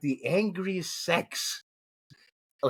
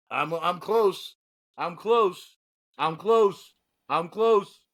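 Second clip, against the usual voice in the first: mock urgent building; 4 dB louder, much slower than usual. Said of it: "being like".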